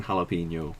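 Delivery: jalapeno with an H sound, no J; low-key correction, jalapeno with an H; insistent correct pronunciation. Shown as a demonstration. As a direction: say jalapeno as "ha-la-pen-yo". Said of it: "Don't pronounce the juz".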